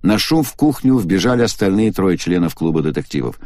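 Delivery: plain reading voice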